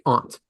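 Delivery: aunt said with an "ah" vowel; aunt as "ahnt". Retold or imitated. Host quoting people he dislikes, aunt as "ahnt". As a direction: say aunt to rhyme with "want". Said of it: "I don't like when people say".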